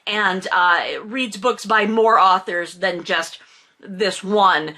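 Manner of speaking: normal talking voice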